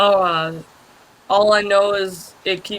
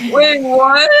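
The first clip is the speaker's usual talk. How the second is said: surprised; 4 semitones higher, 7 dB louder than usual. Real, not acted. Sudden surprised reaction.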